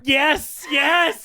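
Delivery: high, loud, shouted yeses; excited agreement. Real, not acted. Co-host hearing their own favorite scene named, excited agreement. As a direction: burst in with thrilled, shouted agreement.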